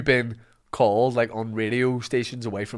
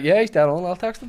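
higher-pitched sarcastic imitation; mock sarcastic; 6 semitones higher than usual. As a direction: mimic a friend who can't help sounding sarcastic. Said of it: "anything you say sounds sarcastic".

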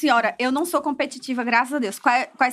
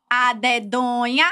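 "A dedonha" slowly chanted, rising at the end; entonação do jogo; 2 semitones lower, much slower than usual. Shown as a demonstration. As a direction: draw out "A dedonha" to show the game's tune. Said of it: "a entonação". ("A dedonha" arrastado, em tom de cantilena)

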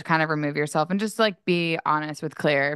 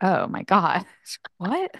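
stunned disbelief; 2 semitones higher, slower than usual. Retold or imitated. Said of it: "And I'm like".

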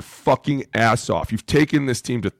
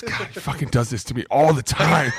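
higher, annoyed mock outburst; exasperated shout; 5 semitones higher than usual. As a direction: blow up at the prank. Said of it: "He goes".

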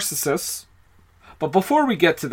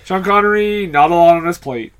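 mock proclamation; 5 dB louder than usual. Host jokes about idle Connery, mock-declaring.

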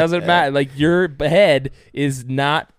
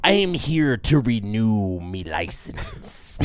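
pirate voice; slower than usual. Pretend. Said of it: "pirate guy".

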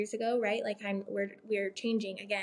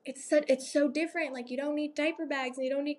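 higher, a hint of a marvelling grandma; imitating her mom; 4 semitones higher than usual. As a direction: lightly play grandma amazed at the ease. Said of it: "my mom's like".

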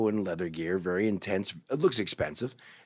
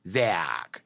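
imitating gay friend; 4 semitones lower than usual. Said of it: "and that's how he talks".

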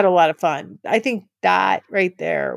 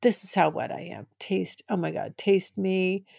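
soft, quick, laying it on thick; retold sultry murmur; 7 dB quieter than usual. Her retold line to her partner, hushed and sultry. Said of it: "really laying it on thick".

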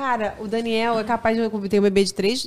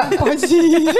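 laughing; 5 semitones higher, 6 dB louder, slower than usual. Retold or imitated. Husband's line, laughing.

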